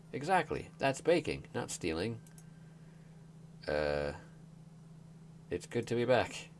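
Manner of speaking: chirpy game dialogue; voicing characters. Streamer reading the villagers' banter, bright and lively.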